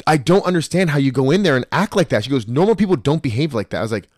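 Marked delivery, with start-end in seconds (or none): 0.1-2.2 lightly imitated scolding ex, pitched higher; mock her raised-voice telling-off; ex-girlfriend's voice. Girlfriend scolding him for how he acted, lightly imitated. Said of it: "'Cause that was her voice". 2.5-3.8 lightly imitated ex, pitched a bit higher; ex-girlfriend's voice. Girlfriend reproaching him, lightly imitated voice. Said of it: "That was her voice".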